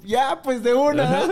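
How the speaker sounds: high, drawn-out giddy agreement; slow, high-pitched mock enthusiasm; eager agreement. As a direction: imitate an all-in partner, half laughing. Partner's eager agreement acted out.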